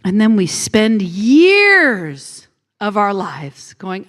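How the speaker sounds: ordinary talk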